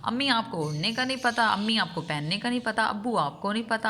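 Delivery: mimicking grown children telling their parents they know nothing; dismissive grown child. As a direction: sneer at mother, imitating. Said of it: "تو پھر یہ کہتے ہیں".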